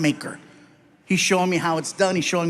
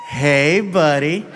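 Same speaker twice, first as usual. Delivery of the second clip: put-on talking to a toddler; slower than usual. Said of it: "He talks to me like I'm two".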